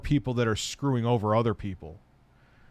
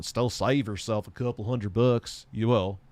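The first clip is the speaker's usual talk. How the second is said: accidental slight Southern accent. Real, not acted. Streamer advising on building a PC, slight Southern accent. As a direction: let a hint of a Southern accent slip in. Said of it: "I sound like I had a Southern accent with that".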